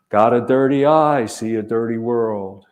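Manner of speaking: lightly voiced grandma, punchy and amused; imitating grandma. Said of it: "she chuckled and she said".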